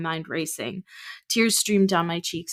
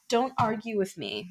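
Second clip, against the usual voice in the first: snapped; 4 semitones higher than usual. Acted. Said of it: "my mother snapped".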